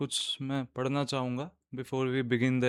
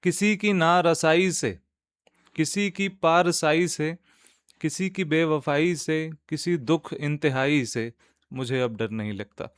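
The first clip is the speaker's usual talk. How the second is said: nazm recitation; 3 semitones higher, 4 dB louder than usual. Acted. Host reciting a nazm to podcast listeners, measured poetic recitation. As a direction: recite line by line, lifting the verses and letting the refrain fall.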